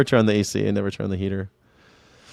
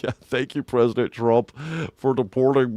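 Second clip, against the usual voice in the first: dopey mock-grateful voice; sarcastic thanks in a put-on voice; mocking imitation; 2 semitones higher, 3 dB quieter than usual. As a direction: parrot it back as if stupid. Mocking the commenter's thanks to Trump.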